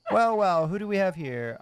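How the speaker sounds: put-on loud, gruff old sailor voice; gruff old fisherman. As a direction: growl it like a weathered fisherman. Voicing fisherman NPC dialogue.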